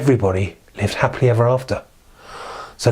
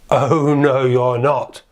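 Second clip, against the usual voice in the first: big billy goat; much slower than usual. Acted. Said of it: "the big billy goat Gruff said".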